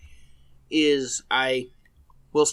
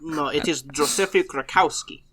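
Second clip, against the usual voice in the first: slow mock-Russian correction; measured fake Russian accent. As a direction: put on a deliberate Eastern European accent. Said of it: "when you do that accent".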